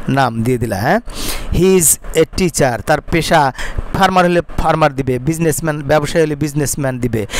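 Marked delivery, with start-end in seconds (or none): 1.5-2.8 slow dictation. Shown as a demonstration. Teacher dictates model sentence.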